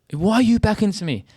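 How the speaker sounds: high, whining imitation of the driver; mocking the other driver. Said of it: "And he's like".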